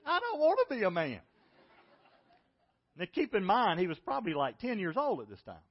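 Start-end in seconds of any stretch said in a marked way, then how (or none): 0.0-1.2 put-on much higher, a ten-year-old's whine; whiny kid refusal. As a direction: whine it like a scared boy. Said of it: "He said".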